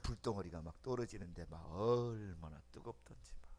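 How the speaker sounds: unvoiced, hushed wonder; awed whisper. Recalling fire falling in prayer, hushed awed whisper. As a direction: whisper it in awe.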